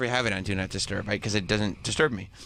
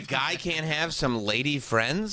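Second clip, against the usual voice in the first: higher-pitched mock outrage; mock indignant; 3 semitones higher than usual. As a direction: play at being offended and defensive. Acting a man's mock-indignant defense.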